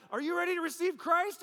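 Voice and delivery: high, loud, pushy question; loud insistent plea to get saved; mock insistent question. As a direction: demand an answer while still squeezing. Pressing the man to get saved.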